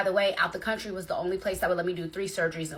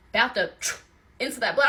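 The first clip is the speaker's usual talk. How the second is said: usual speaking voice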